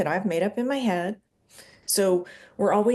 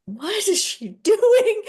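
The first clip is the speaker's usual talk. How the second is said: high, slow, laughing question; amused mock bewilderment; laughing mock puzzlement; 12 semitones higher, 6 dB louder, slower than usual. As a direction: play the baffled partner, laughing. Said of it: "they can look at us like".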